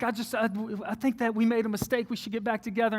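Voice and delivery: soft, mildly tearful pleading; imitated crying. Ex asking to get back together, imitated crying. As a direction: quietly mimic a weepy ex. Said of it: "and she's crying".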